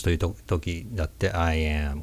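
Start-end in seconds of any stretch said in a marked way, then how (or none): 1.3-2.0 "I am" softer, from the back of the throat. Shown as a demonstration. Teacher contrasting throat voice, back-resonant. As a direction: let "I am" resonate deep in the throat. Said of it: "喉の奥の裏声".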